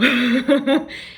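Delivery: quick amused laugh; short laugh. Real, not acted. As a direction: laugh briefly. Laughs at the call.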